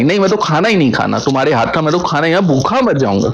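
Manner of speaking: fast, mock-hurt refusal to eat; emotional sulking. Husband sulking to his wife, refusing food, fast and mock-hurt. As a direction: rush the lines like a sulking husband. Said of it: "बस थोड़ा emotional".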